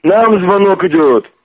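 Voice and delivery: high-pitched, heated protest; worked-up, exasperated denial; exasperated insistence. Real, not acted. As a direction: insist you are not the one calling, pitch up. Heated denial in phone quarrel.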